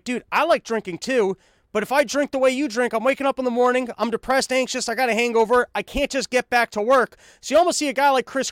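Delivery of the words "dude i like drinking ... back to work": higher-pitched, baffled fellow drinker; mock-incredulous pleading, pitched up; curious disbelief. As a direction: protest like a puzzled drinking buddy. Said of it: "you're almost curious 'cause you're like".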